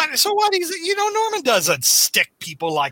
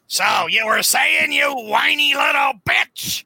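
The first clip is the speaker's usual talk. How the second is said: sneering Goblin; 4 semitones higher than usual. Retold or imitated. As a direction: lean into the insult slowly.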